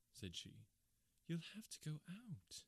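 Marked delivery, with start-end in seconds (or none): 1.3-2.6 lightly higher wifely voice, resigned; a touch of the wife, sighing at the late call; wife's voice. Acted. Wife telling her husband he must go out, lightly voiced.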